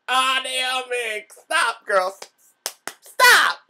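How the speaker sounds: high, exasperated pleading to stop; half-laughing plea to quit it; scolding Naomi. Retold or imitated. Vlogger scolding Naomi about her tantrums, high exasperated plea. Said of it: "I'm like".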